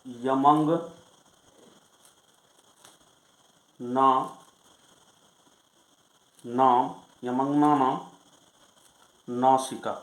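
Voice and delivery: slow, word-by-word chanting of यमंगना नाम; sutra recitation. Shown as a demonstration. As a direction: recite the rule slowly and deliberately. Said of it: "अगला सूत्र है".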